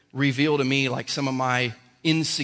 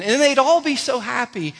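delighted; 9 semitones higher, 6 dB louder than usual. Real, not acted. Delight in the kids' joy.

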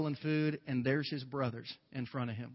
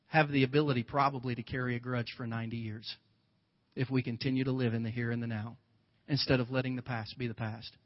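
ordinary delivery

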